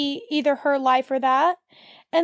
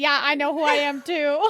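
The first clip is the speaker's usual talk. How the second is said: put-on bored, unimpressed voice. Quoting a favourite line from the scene: imitating bored, unimpressed Spike. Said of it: "so unimpressed with Ford and everything he's saying and just so bored".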